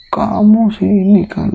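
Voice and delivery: slow, high, loud scolding; angry father. Retold or imitated. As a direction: spit it out slowly at the son. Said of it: "justru dia marah sama saya". (bapak memarahi anaknya dengan lambat dan keras)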